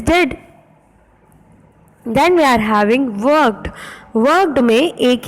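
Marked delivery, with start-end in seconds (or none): 0.0-0.4 "dead" said alone as the second half of "needed"; isolated syllable. Shown as a demonstration. Teacher giving the second syllable, syllable demo. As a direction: sound out "dead" by itself. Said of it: "second one is".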